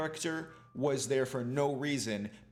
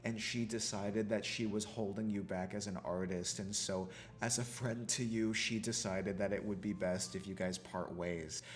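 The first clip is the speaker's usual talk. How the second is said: quiet; 3 semitones lower, 5 dB quieter than usual. Retold or imitated. The new assistant's fake explanation.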